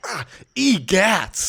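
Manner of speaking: slow, high, loud exclamation; dad's egats. Retold or imitated. Son imitating his dad stubbing his toe, slow high exclamation. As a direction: draw it out like an old dad. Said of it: "but he'll go".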